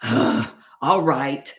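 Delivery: resigned piglet with a heavy sigh; sigh, then give in. Acted. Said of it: "sighed the piglet".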